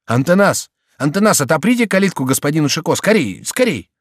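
hurried officer summoning a subordinate; calling out orders. Acted. Officer calls out orders to guard.

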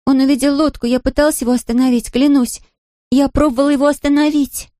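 put-on high young girl repeating her apology; a child begging forgiveness over and over; girl's voice, guilty and pleading. A narrator's reading. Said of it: "твердила Мэри".

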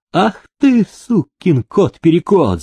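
high, shouted cry of mock abuse; shouted insult. A narrator's reading. Demidov shouts at the runaway, high and mocking. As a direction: throw the insult at him, high. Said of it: "закричал Демидов беглому".

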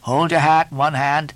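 high, emphatic teasing turning to orders; Stubb, bossy mate. A narrator's reading. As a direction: hector the cook, pitched high.

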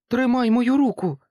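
high, loud shout to someone ahead; calling out. A narrator's reading. Jack shouting to the broken angel. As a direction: call across to him. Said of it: "гукнув йому Джек".

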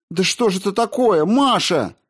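high, loud indignant cry at her sister; furious outcry. A narrator's reading. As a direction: turn on her sister in outrage. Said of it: "крикнула она, яростно вскинувшись".

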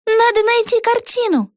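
put-on excited young witch thinking aloud; Vega's voice. A narrator's reading. Вега. (высокий голос юной ведьмы Веги)

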